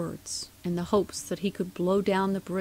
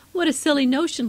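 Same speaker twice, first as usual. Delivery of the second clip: laughing scorn; 7 semitones higher, 6 dB louder, faster than usual. A narrator's reading. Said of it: "laughed Jill Tough".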